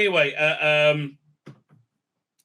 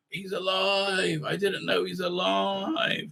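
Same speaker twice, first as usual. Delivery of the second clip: stunned realization; 3 semitones higher, 5 dB quieter, slower than usual. Retold or imitated. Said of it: "and he's like".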